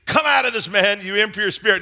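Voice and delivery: firm, intense command; measured but forceful command; with intensity. Acted. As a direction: order it out with authority. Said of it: "Jesus says with intensity".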